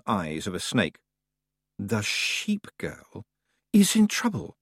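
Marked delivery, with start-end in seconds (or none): 1.8-4.6 slow, sinister hissing speech; hissing echoing voice. A narrator's reading. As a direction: draw it out with an unpleasant hiss. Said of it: "voice full of unpleasant echoes and hisses".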